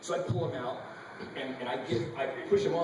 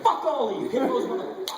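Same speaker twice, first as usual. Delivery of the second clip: screamed curses, much higher and louder; furious shout; 10 semitones higher, 6 dB louder than usual. Retold or imitated. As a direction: yell with everything you have at the hippos. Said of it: "I was fucking livid".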